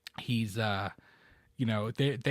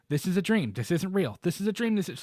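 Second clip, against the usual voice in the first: mock self-reassurance; 6 semitones higher than usual. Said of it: "she's going".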